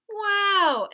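high, loud burst of wonder; a child's amazed wow; excited wow. Acted. Mark amazed at his dad's words, excited high wow.

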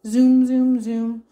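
loud, playful zooms; car zooming. Pretend. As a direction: imitate a car speeding off. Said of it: "the car drives away".

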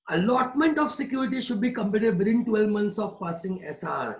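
each word spaced out slowly for note-taking; slow dictation. Shown as a demonstration. Teacher to class, dictating a definition slowly.

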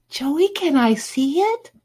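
put-on high, pleading girlish voice; put-on girly pleading; fawning girl. A narrator's reading. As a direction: beg to see, high and eager. Judy fawning over Joey.

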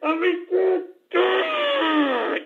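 rising exasperated rant, mildly hammed-up; half-hearted fed-up host losing patience; fed-up outburst. Radio host cutting off the disgusting clip, exasperated.

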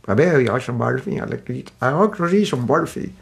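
a light put-on Scottish accent. Devotee in Scotland asking for Barfi, mild Scottish accent. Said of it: "difficult to understand Scottish accent".

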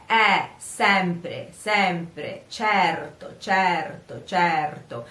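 sempre and certo with open Italian e; Italian vowel e. Shown as a demonstration. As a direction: say certo with a clean e. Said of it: "here we have e".

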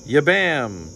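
abrupt spell word, swooping up then falling; sudden strange magical exclamation; sudden outburst. A narrator's reading. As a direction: blurt it out boldly. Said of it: "said the bone suddenly".

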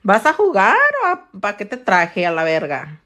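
scolding her son. Retold or imitated. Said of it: "And I'm like".

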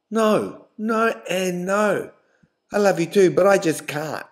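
firm refusal. A narrator's reading. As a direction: dig in and refuse him. Girlfriend refusing firmly.

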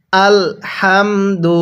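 "হামদু"-র হা মুখ দিয়ে হালকা বাতাস বের করে, টেনে ধীরে; slow, drawn-out "হামদু" with a light breath of air on the হা; হালকা বাতাসে হা. Shown as a demonstration. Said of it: "মুখ দিয়ে হালকা বাতাস বের করতে হবে". ("হামদু"-র হা হালকা বাতাস ছেড়ে টেনে উচ্চারণ)

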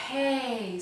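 soft, airy hey; breathy hey. Shown as a demonstration. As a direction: let the air escape. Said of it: "it was a breathy voice".

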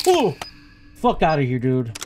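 startled yell. Real, not acted. Jump scare in game.

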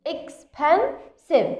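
slow modelling. Shown as a demonstration. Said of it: "So also it's a long adjective".

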